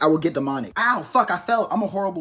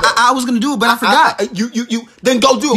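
put-on stammering kid; 4 semitones higher, 6 dB louder than usual. Kid making excuses.

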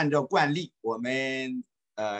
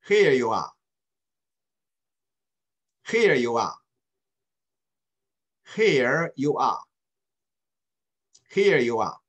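领读; 2 semitones higher than usual. Shown as a demonstration. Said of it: "read after me, please".

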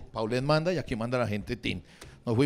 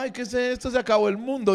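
mock panic; 9 semitones higher, 4 dB louder than usual. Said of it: "dijo un hijo de puta".

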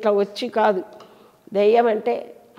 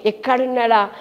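searching call. Retold or imitated. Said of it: "అని ఆయన వెతుకుతున్నది".

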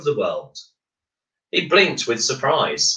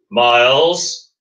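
a firm, louder call of the name; firmly; 5 dB louder than usual. Acted. The Earthmaker stops Miles with a firm call of his name. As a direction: say his name like a stern warning. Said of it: "said the voice firmly".

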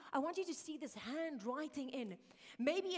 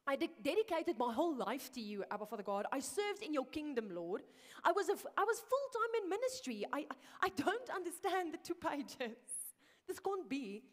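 higher, insistent retold protest; imitated indignant self-defence, rising in pitch; defending himself; 4 semitones higher, 4 dB louder than usual. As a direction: plead your case in disbelief, acting it out. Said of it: "he was defending himself with Abba Father".

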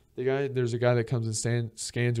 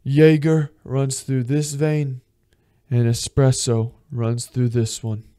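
slow, louder mock bar owner; bar owner's boast; 7 dB louder, slower than usual. Bar owner bragging to the brothers, slow and loud. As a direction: lightly play the proud bar owner. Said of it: "and he goes".

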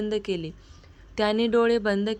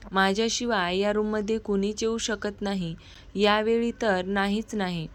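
mild word-by-word emphasis on "माझ्याशिवाय या रूममध्ये कुणीच"; understated insistence, "नाहीच नाही" given extra weight; stressing each word. A narrator's reading. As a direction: lean a little on each word, landing firmly on "नाहीच नाही". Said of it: "एक एक शब्दावर जोर देत".

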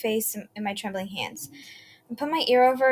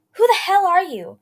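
frightened shout; 9 semitones higher, 9 dB louder than usual. A narrator's reading. Terrified girl confronts the monster.

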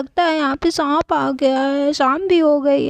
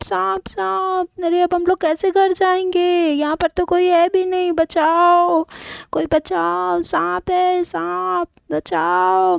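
calling for help; 2 semitones higher than usual. Acted. Children trapped, calling for help.

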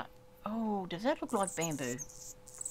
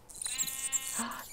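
high-pitched gasp; 6 semitones higher than usual. Real, not acted. Player discovering sunflower plains, gasping.

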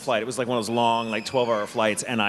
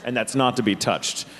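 slow, serious exit-door enforcer; mock-official, measured warning; stern reprimand; 3 semitones lower than usual. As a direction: spell out the rule slowly and firmly. Retold stern exit-row enforcement.

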